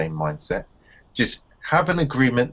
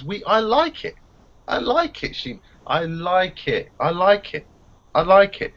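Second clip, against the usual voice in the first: gleeful; 8 semitones higher than usual. Real, not acted. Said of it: "heard by my tone".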